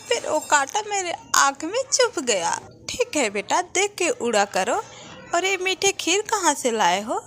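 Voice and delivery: a hint of a small child fibbing. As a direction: explain to mom innocently, hiding the truth. Child explains to mother.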